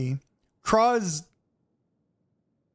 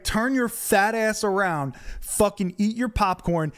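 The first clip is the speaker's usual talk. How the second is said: higher, drawn-out heated command; retold angry order; 5 semitones higher than usual. Telling the fan to mind his business, retold anger. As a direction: re-enact dressing down a stranger. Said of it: "I was so mad".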